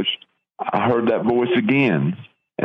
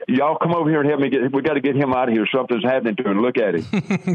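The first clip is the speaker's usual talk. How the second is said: alarmed call for help; 4 semitones higher, faster than usual. Retold or imitated. Friend panics, calls for help.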